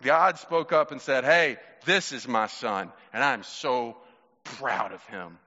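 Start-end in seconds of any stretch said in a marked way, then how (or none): 1.2-5.4 slow, tender pride; proud, settled fatherly voice; loving father. Retold or imitated. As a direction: say it slowly, like a proud father easing down. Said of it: "the loving voice of their father".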